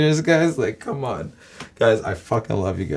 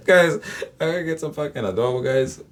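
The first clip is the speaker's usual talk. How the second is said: excited; 6 semitones higher than usual. Real, not acted. Laughing craving for adobo.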